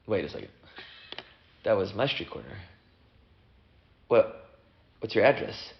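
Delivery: low, hesitant, quietly unnerved; freaking out. Acted. Namesake hears his own street corner, quietly freaking out. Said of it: "now they're both kinda freaking out".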